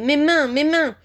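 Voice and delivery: high-pitched wail of pain; pained moaning. A narrator's reading. Servant cries over his burning hands, moaning. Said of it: "gémit-il".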